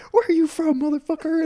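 loud, high drill-instructor yell; imitated drill instructor. Acting black drill instructor barking question.

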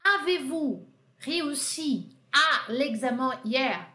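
slow, deliberate French question; slow model question. Shown as a demonstration. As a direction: lay out the inverted question for students. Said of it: "Aqui eu usei a inversão". (pergunta modelo em francês, devagar)

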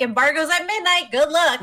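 tossing off a deadline with a laugh; mock breezy company voice. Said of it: "They're like".

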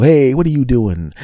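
high, loud "caught you" shout; indignant call-out. Acted. Family hearing the hidden husband, loud indignant call-out. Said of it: "they're gonna go".

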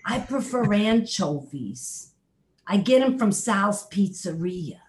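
high, loud Brooklyn bee puppet voice; a chatty New York bee confessing his tastes; Bernie the Bee voice. Pretend. Puppet bee telling the host about his anchovies in a high Brooklyn voice. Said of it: "Bernie the Bee talks like this".

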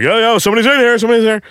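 high, urgent warning shout; alarmed calling out. Retold or imitated. Man in locked bathroom to person at the door, high alarmed call.

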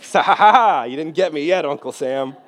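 high, loud taunting laugh; hammed-up victorious laughter; mock gloating laugh. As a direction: cackle triumphantly at Uncle Sam. Retold gloating laugh at oath.

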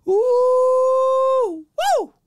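high, loud whooping call; excited holler. Acted. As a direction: whoop it out, hyped. Hollering at a woman walking by.

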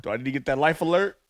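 put-on low, soft elderly mom; old mom voice. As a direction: play a frail old mother.

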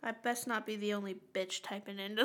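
unvoiced low warning whisper; whispered aside. Real, not acted. Co-host warning listeners to write in, whispered aside. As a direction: hush it like a secret threat.

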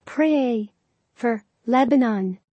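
each word separately with pauses; slow dictation pace, one word at a time. Shown as a demonstration. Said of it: "mit unterschiedlichen Geschwindigkeiten".

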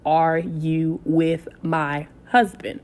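slow, lightly voiced wife asking; a hint of a suspicious wife, slow; wife's voice on the phone. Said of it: "I hear this voice say".

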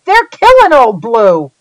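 high, loud frantic yell; panicked yell. Acted. Rainey yelling to Reuben that his hound is losing. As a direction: yell across the clearing in alarm. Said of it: "I heard Rainey yell".

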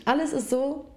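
high strained voice while choking. Real, not acted. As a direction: fight through a choking fit. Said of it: "Ich hab mich verschluckt".

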